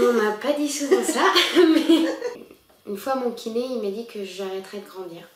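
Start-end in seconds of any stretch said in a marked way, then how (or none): 1.4-2.1 laughing through the word. Real, not acted. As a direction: burst out laughing. Laughing at her own remark.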